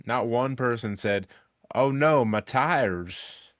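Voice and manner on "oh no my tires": put-on slow, drawn-out Australian accent; a mock Australian moan about tires. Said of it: "That's my Australian accent".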